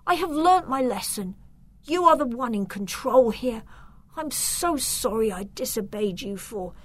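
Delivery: high, pleading voice; begging. A narrator's reading. Victor begs his uncle for forgiveness, pleading. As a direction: plead anxiously, starting high and easing slightly. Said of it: "he begged his uncle".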